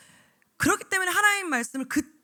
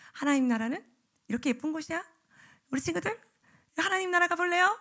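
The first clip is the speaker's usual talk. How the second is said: put-on sweet voice to children; 4 semitones higher than usual. Shown as a demonstration. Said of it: "이러면 애들이 어떻게 할까요".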